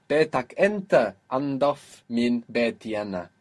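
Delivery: Betak enta andaf min beti ana, punched on enta; emphatic. Shown as a demonstration. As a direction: stress enta in the contrast. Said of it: "if we want to be more emphatic".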